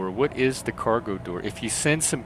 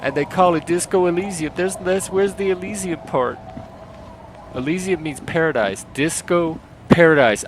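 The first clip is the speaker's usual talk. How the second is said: high-pitched mock voice-acting demo; Black character impression; 6 semitones higher than usual. Streamer auditioning for a Black role, high and animated. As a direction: put on an animated, raised character voice. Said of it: "I still think they need a black person".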